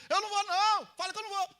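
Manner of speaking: high yell over the traffic; retold shout. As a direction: call it out loudly from the car. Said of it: "então eu tive que gritar".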